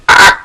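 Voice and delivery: sharp cry of sudden head pain; pained shout. Acted. Stabbed by sudden headache, sharp pained cry. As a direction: yelp as the pain hits. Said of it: "you shout".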